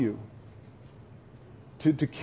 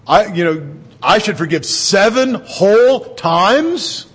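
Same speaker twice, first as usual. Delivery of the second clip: mock incredulous Peter; 3 semitones higher, 5 dB louder, slower than usual. Pastor voicing Peter asking about forgiving seven times, mock incredulous.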